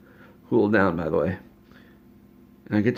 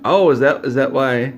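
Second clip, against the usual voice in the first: surprised realization; 4 semitones higher, 6 dB louder than usual. Retold or imitated. Sudden realization about clones.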